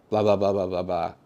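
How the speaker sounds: flat, droning blah blah read; monotone. Shown as a demonstration. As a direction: drone it out like a bored script read. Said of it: "in a very monotone delivery".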